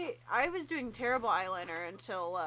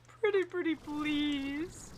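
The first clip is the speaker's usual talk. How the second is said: higher, pleading little voice; sweet begging; 4 semitones higher, much slower than usual. Pretend. Asking her watering eye to stop, in a sugary plea. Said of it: "Do you have to be like".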